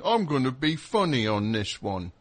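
lightly put-on New Zealand accent slipping into Cockney; bad New Zealand accent. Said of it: "a Cockney accent. That's not a New Zealand accent".

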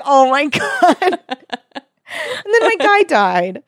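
high, slow laughing wail; laughing cry. Real, not acted. Character dies, mock anguish.

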